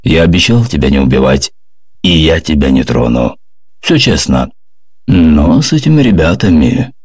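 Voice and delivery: ominous. Acted. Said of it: "зловеще произнёс".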